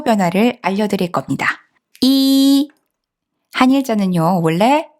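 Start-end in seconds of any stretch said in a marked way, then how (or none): 2.0-2.7 이 held high and level; first tone. Shown as a demonstration. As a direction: keep 이 on one long high note. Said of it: "일성입니다".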